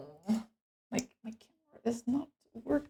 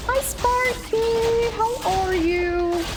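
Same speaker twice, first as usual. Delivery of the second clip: cheery greeting; 11 semitones higher, slower than usual. Real, not acted. Greeting a viewer.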